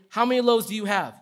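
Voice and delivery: serious, projected demand; commanding. Acted. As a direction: ask it like an order. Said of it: "commanding here".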